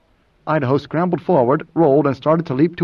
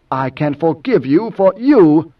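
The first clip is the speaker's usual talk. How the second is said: slow, louder, stiffly formal; 2 semitones higher, 5 dB louder, slower than usual. Acted. Idaho grants forgiveness to Moneo, stiffly. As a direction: measure out the words stiffly. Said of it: "Idaho spoke stiffly".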